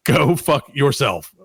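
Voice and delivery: slow, deliberate, each word set apart; slow deadpan punchline. Retold or imitated. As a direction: land the punchline slowly and flatly. Reading the mayor's email punchline.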